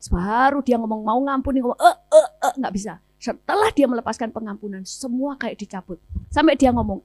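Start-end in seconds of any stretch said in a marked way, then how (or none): 1.8-2.5 loud, high stuck grunts; imitated choking stammer. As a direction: mimic words sticking in the throat. Imitates someone unable to say it. (menirukan suara tercekat, tak bisa bicara)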